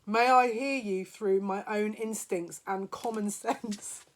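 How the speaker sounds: slow reading. Shown as a demonstration. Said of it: "This is hilarious".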